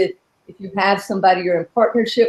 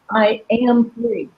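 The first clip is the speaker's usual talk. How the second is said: slow, with am weighted; slow deliberate am; stress on AM, slow; slower than usual. Shown as a demonstration. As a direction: lean on am and take it slowly. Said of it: "So you put different emphasis".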